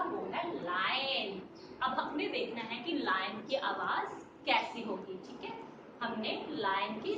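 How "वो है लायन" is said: slow, lower, drawn-out announcement of the lion; dramatic lion reveal. Shown as a demonstration. Teacher building suspense for the class before the lion, slow and low.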